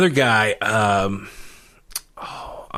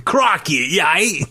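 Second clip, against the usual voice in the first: mock Australian accent, pitched up; 6 semitones higher, slower than usual. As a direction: put on a jokey, higher Australian accent. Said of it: "it's my Australian accent".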